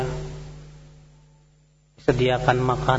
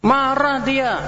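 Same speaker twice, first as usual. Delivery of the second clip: usual speaking voice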